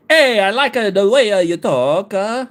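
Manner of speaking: put-on California accent, starting high; California accent impression. Streamer imitating how a chatter must sound, in a California accent. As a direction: imitate a Californian with a swooping lilt. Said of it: "this is how I think Mexi's voice is".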